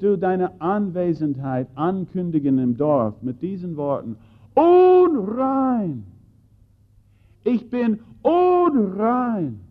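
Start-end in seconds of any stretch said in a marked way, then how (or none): 4.5-9.6 high, drawn-out warning cry of a leper; leper's cry. Acted. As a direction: call it out slowly like an outcast warning the village.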